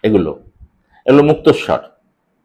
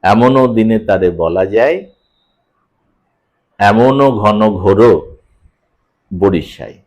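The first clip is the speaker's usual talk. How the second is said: lower, measured verse with a rest after "যায়" and before "বরিশায়"; recitation by metrical units; 5 semitones lower, slower than usual. Shown as a demonstration. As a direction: recite "এমনও ঘন ঘোর" slowly, then pause. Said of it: "যেখানে আমরা বিশ্রাম নিচ্ছি".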